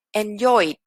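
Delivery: "Enjoyed" with a small D after the vowel; small final D. Shown as a demonstration. Teacher showing vowel-ending verbs, small D on "Enjoyed". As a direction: add a light D to end "Enjoyed". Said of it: "una pequeña D al final".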